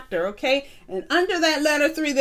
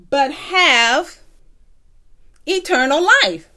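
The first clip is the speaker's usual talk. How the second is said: rising call to repeat; 2 semitones higher, 6 dB louder than usual. Shown as a demonstration. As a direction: build it up for the children to shout back. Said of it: "repeat these words after me".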